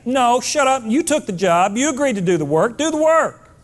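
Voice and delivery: lightly acted dad's scolding, rising in pitch; mock fatherly order, punching the end; firm father. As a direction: cut off the child's excuse. Acts a father cutting off child.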